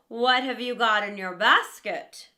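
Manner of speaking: hushed, sly wolf asking; a wolf's sly whisper to the girl. Acted.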